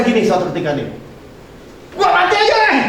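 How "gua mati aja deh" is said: despairing sick man. Retold or imitated.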